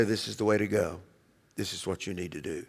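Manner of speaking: very soft, low voice of gentle guidance; still small voice. Acted. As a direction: speak as God's quiet inner voice. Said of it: "in a still small voice".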